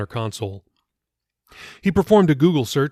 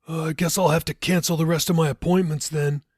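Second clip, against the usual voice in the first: quip; 6 semitones higher than usual. A narrator's reading. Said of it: "Jacob quipped".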